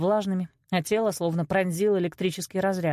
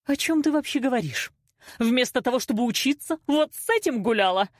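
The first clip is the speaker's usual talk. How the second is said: angry accusation; 6 semitones higher than usual. A narrator's reading. Mother accusing daughter in quarrel.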